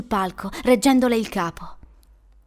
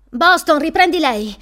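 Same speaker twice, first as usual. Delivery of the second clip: loud, raised command; quick commanding shout, pitched up; instinctive order; 5 semitones higher, 6 dB louder than usual. A narrator's reading. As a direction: order a colleague urgently. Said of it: "ordinò istintivamente".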